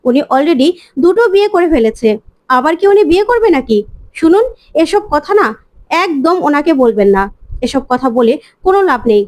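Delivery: mildly angry scolding, pitch climbing mid-rant; understated indignant outburst at the doctor. Acted. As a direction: tell the doctor off, a touch heated. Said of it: "মিমি প্রচন্ড রেগে যায় আর বলে".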